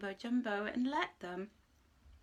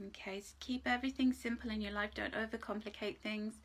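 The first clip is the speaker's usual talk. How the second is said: ordinary delivery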